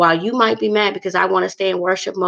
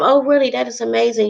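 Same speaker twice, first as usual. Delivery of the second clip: higher-pitched, delighted friend on the phone; acted delight; 5 semitones higher than usual. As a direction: react with pleased surprise, pitched up. Acts out upbeat friend's reply.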